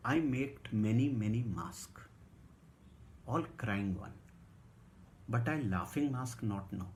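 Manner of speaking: very slow broken-English recital; slow halting reading. Acted. Narrator reading Sukkha's farewell note, very slow. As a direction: read each word slowly, haltingly.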